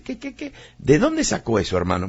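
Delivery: sudden high squeaky disbelief then settling; incredulous objection. Pretend. Preacher voicing a doubting listener, incredulous. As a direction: play the doubting listener, cut in shrill. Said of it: "Usted va a decir".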